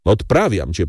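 ordinary delivery

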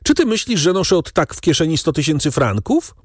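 high-pitched exasperated protest; despairing outburst. A narrator's reading. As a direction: demand it in rising desperation. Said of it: "wrzasnął zrozpaczony Danglars". (zrozpaczony, wysokim głosem)

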